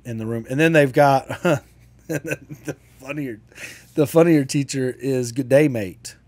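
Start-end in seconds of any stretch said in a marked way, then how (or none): 5.3-6.2 put-on Australian accent. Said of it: "and they all do the voice".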